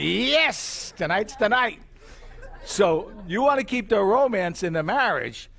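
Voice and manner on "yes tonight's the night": mock eager cheer, pitched up on yes; playing the thrilled husband, lightly; excited husband. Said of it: "So he's excited".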